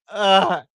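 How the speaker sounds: loud exasperated "ugh"; exasperated groan; frustrated groan. Retold or imitated. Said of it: "me getting super frustrated".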